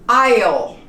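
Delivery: Isle said loudly with no S sound; silent S. Shown as a demonstration. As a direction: say Isle like "aisle", S dropped. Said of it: "You don't pronounce the S at all".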